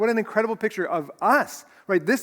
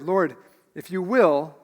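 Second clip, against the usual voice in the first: slow, deliberate quoting of a plea; weighted words; 3 dB louder, slower than usual. Acted. Preacher repeating the leper's words, slow and weighted. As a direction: give each word its own weight. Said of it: "every word in this phrase is weighted".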